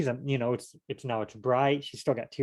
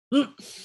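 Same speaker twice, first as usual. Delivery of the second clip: sharp gasp; 12 semitones higher than usual. Shown as a demonstration. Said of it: "Listen to this, listen".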